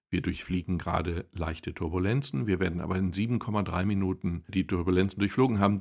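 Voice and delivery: a calm cockpit announcement pitched low; deep pilot voice. Retold or imitated. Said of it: "tiefe Stimme und die sagt dir".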